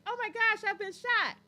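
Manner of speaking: high, loud mock alarm; bad movie acting. Showing how Tubi movies go, hammy bad acting. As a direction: overact a shot movie victim. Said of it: "it's like this".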